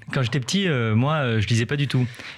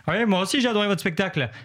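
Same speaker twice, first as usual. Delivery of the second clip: imitating the librarian; 5 semitones higher than usual. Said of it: "elle a dit à la dame de la bibliothèque".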